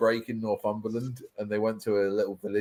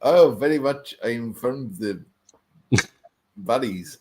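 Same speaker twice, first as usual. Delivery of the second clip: a touch of mock Welsh from the valleys; lightly put-on Welsh accent, starting loud; 4 dB louder, slower than usual. Teasing friend about Welsh accents sounding Indian, mock Welsh. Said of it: "when someone does a Welsh accent".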